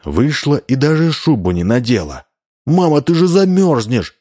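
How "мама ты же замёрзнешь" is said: put-on boy calling out worried; worried shout. A narrator's reading. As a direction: shout after mum in alarm. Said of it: "закричал Вова".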